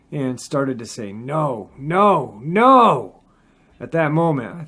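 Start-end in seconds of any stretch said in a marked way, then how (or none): 1.1-3.2 rising from usual voice to loud, high cry; each no higher and louder, pleading; building agony. A narrator's reading. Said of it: "after a few seconds from agony".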